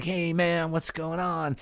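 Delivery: lightly voiced burnout; a hint of a spaced-out hippie; stoned Deadhead. Lightly voiced Deadhead greeting the tripping kid. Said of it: "Dead troll".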